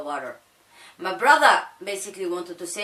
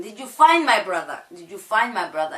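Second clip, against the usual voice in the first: urgent question; 5 dB louder than usual. Retold or imitated. Boy begging police for news.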